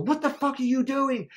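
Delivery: high-pitched, incredulous demand; indignant outburst. Retold or imitated. Waking man confronts his whispering girlfriend, indignant outburst. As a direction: re-enact catching someone red-handed.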